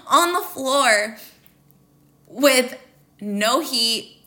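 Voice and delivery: fighting tears as the memory returns; holding back tears. Real, not acted. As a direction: voice catching on a sob. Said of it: "I'm trying not to cry right now".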